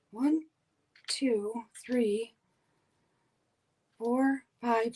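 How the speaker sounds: talking around a pen in mouth; mumbled with a pen between teeth. Real, not acted. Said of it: "Sorry, I had a pen in my mouth talking".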